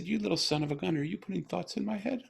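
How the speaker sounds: very high, playfully accusing retold exclamation; delighted disbelief. Father catching his daughter sending thoughts, high-pitched amazed teasing. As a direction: climb high in mock accusation.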